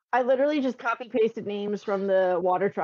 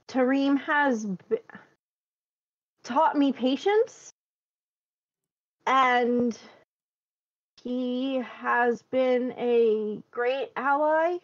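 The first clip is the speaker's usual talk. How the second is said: slow, measured, formal diplomat; formal approach; 4 semitones higher, slower than usual. Acted. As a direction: speak slowly like a careful diplomat. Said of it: "decide to go with a more formal approach".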